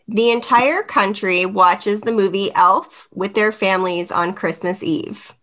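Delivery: flat robot voice reading; monotone robot voice read. Real, not acted. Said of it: "You turn into a robot".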